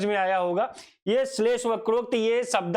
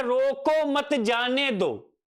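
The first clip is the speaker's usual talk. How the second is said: slow, "रोको" set apart, "मत जाने दो" run together; group it as "रोको, मत जाने दो"; pause after रोको; 3 semitones higher, much slower than usual. Shown as a demonstration. Teacher showing voice changes meaning, break after "रोको". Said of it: "कंठ ध्वनि के कारण".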